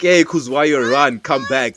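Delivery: re-enacted warning shout, easing off; urgent calling out. Retelling calling Kuzwayo away from the snake, urgent call. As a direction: call the child back, mildly urgent.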